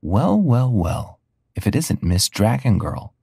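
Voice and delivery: mocking sing-song taunt, drawn out; a lightly voiced mean girl, slow and sneering. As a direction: tease her like a school bully. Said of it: "A girl taunted me".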